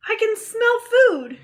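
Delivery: high, loud hungry yell; booming hungry voice. Acted. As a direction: call out from the woods. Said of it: "yelled a voice from nearby".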